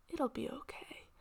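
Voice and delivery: quiet, whispered false comfort; soft reassurance. Acted. Mumbo comforting Green, soft whisper. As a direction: soothe him softly while lying. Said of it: "Mumbo says".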